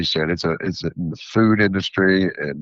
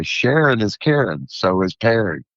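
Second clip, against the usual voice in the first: hillbilly accent; 2 semitones higher than usual. Shown as a demonstration. Vendor doing silly talk for market customers, hillbilly accent. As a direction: say it as a playful hillbilly. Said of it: "in my hillbilly accent".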